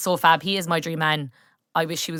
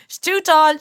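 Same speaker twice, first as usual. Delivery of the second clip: amused laughing echo, higher and louder; 8 semitones higher, 5 dB louder than usual. Real, not acted. Echoing her friend's verdict through a laugh. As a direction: laugh the words back at her.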